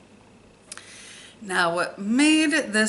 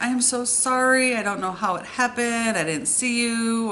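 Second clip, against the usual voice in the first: higher-pitched, lightly mimicked tearful apology; imitating crying apology; 5 semitones higher than usual. Crying daughter apologising after the crash, mildly imitated distress. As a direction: retell a distressed apology without really crying. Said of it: "the daughter's crying".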